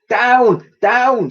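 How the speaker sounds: high, loud urgent call; shout. Acted. Girl shouting to friends on the bridge, urgent shout. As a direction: yell it down to her friends. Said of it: "shouted the girl to her friends".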